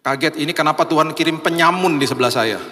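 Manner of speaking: mildly alarmed mock protest; startled. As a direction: act out a churchgoer's dismayed surprise. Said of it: "Kaget dong". (pura-pura kaget)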